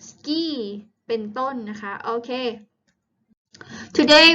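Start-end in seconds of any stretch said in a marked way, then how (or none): 0.1-0.4 "ski" said with a long ee; E sound. Shown as a demonstration. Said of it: "เสียง E ค่ะ เช่น".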